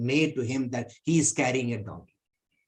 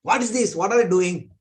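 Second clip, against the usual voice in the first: higher, a little louder feigned astonishment; hammed-up disbelief; mock surprise; 4 semitones higher, 4 dB louder than usual. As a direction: act shocked at what he carries. Thief feigns shock at the calf.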